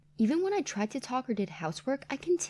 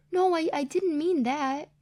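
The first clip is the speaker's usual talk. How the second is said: flustered denial; 6 semitones higher, 4 dB louder than usual. Acted. Flustered denial to mother-in-law.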